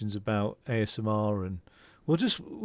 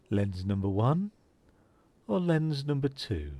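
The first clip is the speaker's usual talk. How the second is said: imitating a calm, professional optician, softer and unhurried; 4 dB quieter than usual. To a child in the chair, imitating the calm optician softly. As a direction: mimic the optician's measured, quiet lens question. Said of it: "he would literally speak like that".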